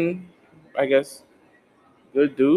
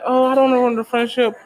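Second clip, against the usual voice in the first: high, quick mock worrier; hurried, high-pitched mock hesitation; mock reluctance; 10 semitones higher, faster than usual. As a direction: imitate someone fretting, pitched up and rushed. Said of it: "it's like".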